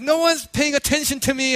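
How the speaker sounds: high-pitched jealous complaint; retold jealous child. Jealous middle child complaining, high-pitched. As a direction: imitate a child feeling left out. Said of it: "Noelle was getting jealous".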